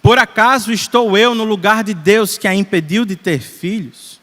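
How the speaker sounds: understated acted annoyance; mildly irritated. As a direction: read it with a touch of irritation, raising the volume. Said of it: "Jacó ficou irritado e disse".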